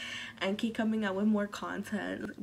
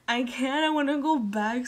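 louder, higher I can't; exasperated outburst; 4 semitones higher, 5 dB louder than usual. Real, not acted. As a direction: burst out, overwhelmed.

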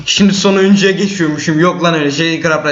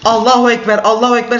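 mock battle cry; 6 semitones higher than usual.

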